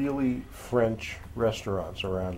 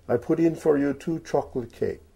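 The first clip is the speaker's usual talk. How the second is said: attempted French accent; 5 semitones higher than usual. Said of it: "should attempt a French accent".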